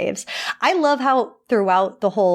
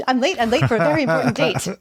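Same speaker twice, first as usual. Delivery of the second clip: White Rabbit voice; 4 semitones higher, much faster than usual. Retold or imitated.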